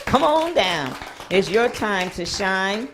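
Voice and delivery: loud, high welcome shout; excited call. Acted. Host calls guest on stage.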